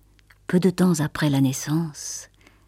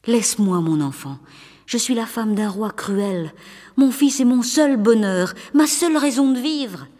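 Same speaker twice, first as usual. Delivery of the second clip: pleading; 4 semitones higher than usual. Acted. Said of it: "en le suppliant".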